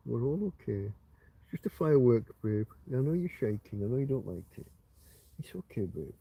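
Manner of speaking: soft, quiet, reassuring murmur; calm a shaking pet gently; soothing the dog. Real, not acted. Soothing scared dog during fireworks.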